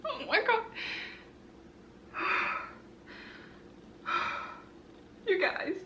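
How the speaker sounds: high, breathless oh my God; stunned, voice jumping up; stunned disbelief. Real, not acted. To her viewers after passing, high stunned disbelief. Just passed exam.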